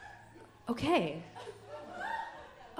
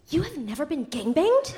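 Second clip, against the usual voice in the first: incredulous; 3 semitones higher than usual. Retold or imitated. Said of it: "And she goes".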